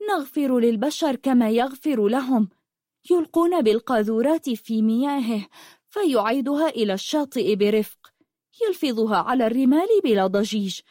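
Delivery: a hint of a girl in love with the sea; dreamy young girl. Rafif rhapsodizes about the sea.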